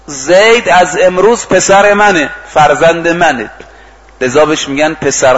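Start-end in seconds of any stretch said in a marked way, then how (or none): 0.0-3.5 slow, mildly raised announcing voice; retold proclamation. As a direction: proclaim it to a crowd, understated. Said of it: "فریاد زد". (اعلام با فریادی ملایم و شمرده)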